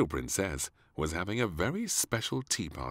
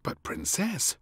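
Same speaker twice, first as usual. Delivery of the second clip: higher, gently reminding maid; 14 semitones higher, 4 dB louder than usual. Acted. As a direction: remind the princess kindly. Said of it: "said the maid".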